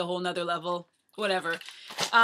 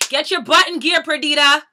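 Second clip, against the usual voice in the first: high, loud bark of an order; mock coach yelling from the trackside; imitated coach's yell; 6 semitones higher, 11 dB louder than usual. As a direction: yell it like a pushy coach at a slacker. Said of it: "someone yelling at me".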